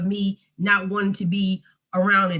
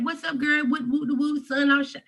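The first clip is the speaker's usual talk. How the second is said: bright, high put-on cheerful voice; faked breezy cheer; playing the part, faking cheer; 7 semitones higher than usual. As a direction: act fine and upbeat for a friend on the phone. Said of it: "I'm playing the part".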